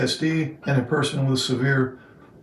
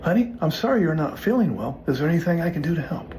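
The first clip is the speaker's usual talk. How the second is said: sympathetic script line; 5 semitones higher than usual. Shown as a demonstration. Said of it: "the line that you're gonna use will be".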